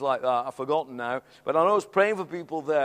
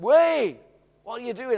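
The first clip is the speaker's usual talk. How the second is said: startled objection; 3 semitones higher, 6 dB louder than usual. Retold or imitated. Someone stops him lifting man.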